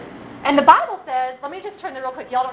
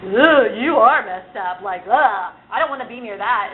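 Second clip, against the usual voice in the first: disgusted sneer; 4 semitones lower than usual. Retold or imitated. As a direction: recoil from them like they're gross. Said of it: "everyone would go".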